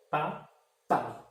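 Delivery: "pa" and "pai" said apart, the A of each leaned on; careful classroom syllable drill; syllables spelled out slowly. Shown as a demonstration. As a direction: split "pa, pai" to show the strong A. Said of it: "qual é a que soa mais forte?".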